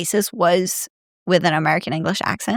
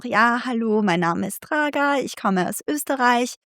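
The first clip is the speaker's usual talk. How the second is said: lightly put-on standard German accent in Austria; imitated school German accent; 3 semitones higher than usual. Introducing herself to Austrians, imitated Hochdeutsch accent. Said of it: "je parlais un petit peu genre".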